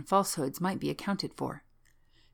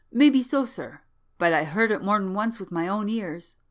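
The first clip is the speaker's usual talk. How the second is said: higher, louder servant voice; insistent old manservant; 4 semitones higher, 6 dB louder than usual. Acted. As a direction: stand your ground respectfully as an old servant.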